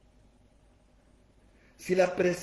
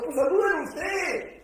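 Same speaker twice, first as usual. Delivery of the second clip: shouted retort; 9 semitones higher, 6 dB louder than usual. Real, not acted. Respuesta del predicador a la queja.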